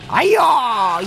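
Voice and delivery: bright loud shout; loud call-out. Pretend. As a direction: call it out loudly. Playful call-out.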